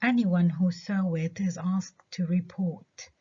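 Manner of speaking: slow model sentence, "Anyone" stressed on its first part. Shown as a demonstration. Teacher models stress on "Anyone" for the class. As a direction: hit the ANY in "Anyone", read slowly. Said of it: "حطينا الستريس على الجزء الأول من الكلمة اللي هو any".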